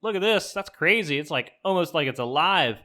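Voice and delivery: mock thrilled, like a kid with a find; excited show-off. Susan showing off skull torch.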